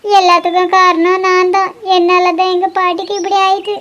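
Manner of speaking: crying, frightened and blaming oneself; tearful plea that fades at phrase ends; tearful worry. Acted. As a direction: fret through tears. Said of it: "எதுக்கு இப்ப நீ அழுதுகிட்டு இருக்க".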